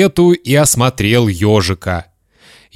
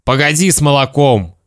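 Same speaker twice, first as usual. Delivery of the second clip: mildly stern dad; stern father; 3 semitones higher than usual. Acted. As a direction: cut the child off with a touch of sternness. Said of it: "строго сказал папа".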